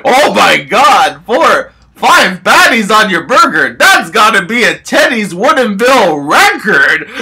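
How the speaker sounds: mock amazed waiter, laughing through it; laughing waiter quote. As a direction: imitate the amazed waiter while cracking up. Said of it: "and he was like".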